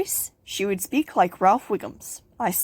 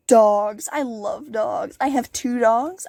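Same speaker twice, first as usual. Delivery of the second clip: usual speaking voice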